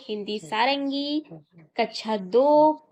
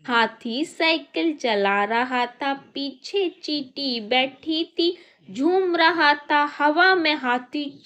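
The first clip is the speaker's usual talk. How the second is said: put-on poem for children. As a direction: recite it with a lilt for little kids.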